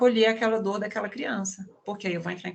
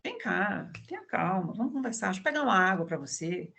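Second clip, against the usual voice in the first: gentle comforting. Retold or imitated. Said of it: "Você vai dizer".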